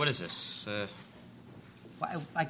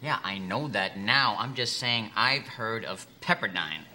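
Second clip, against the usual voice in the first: slow condescending; 4 semitones lower, slower than usual. Acted. Interviewer talks down to applicant.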